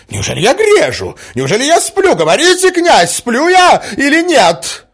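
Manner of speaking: high, loud indignant outburst; indignant mother, loud and high. A narrator's reading. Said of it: "с негодованием возразила Марья Александровна".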